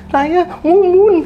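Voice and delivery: very high, slow, eerie ghost voice; ghost Mumun speaking. Retold or imitated. Ghost answers the boss who she is, slow high eerie voice. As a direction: stretch the name out, high and otherworldly. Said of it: "Saya siapa?".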